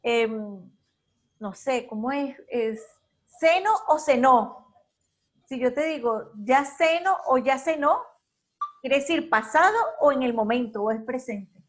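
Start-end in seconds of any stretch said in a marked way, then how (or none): 3.4-4.7 "ceno" stressed on CE, then "cenó" stressed on the final Ó; stress contrast. Shown as a demonstration. Teacher asks students to tell ceno from cenó, contrasting first- and last-syllable stress. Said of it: "si lleva el tilde". 6.4-8.0 "ceno" stressed on CE and rising, "cenó" stressed on final Ó; stress contrast. Shown as a demonstration. Teacher shows present versus past, contrasting stress on CEno and ceNÓ. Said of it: "Vean la diferencia".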